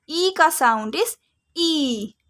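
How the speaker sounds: slow teaching emphasis. Shown as a demonstration. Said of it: "long sound".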